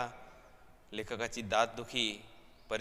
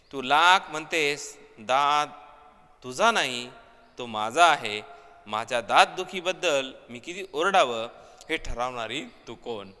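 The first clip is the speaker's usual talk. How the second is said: defiant outburst; 2 semitones higher, 8 dB louder than usual. Retold or imitated. Husband snaps back at wife.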